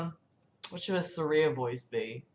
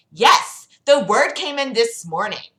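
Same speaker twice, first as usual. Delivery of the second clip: lightly voiced Valley Girl princess, louder; 4 semitones higher, 8 dB louder than usual. Zelda confirms the summons, lightly Valley Girl. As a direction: answer briskly as a slightly higher Valley Girl. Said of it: "she's a Valley Girl".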